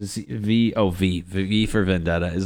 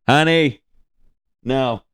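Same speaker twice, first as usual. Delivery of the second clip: higher, louder pleading voice; high mock family voice; 7 semitones higher, 6 dB louder, slower than usual. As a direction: play a fussing relative. Voicing family member.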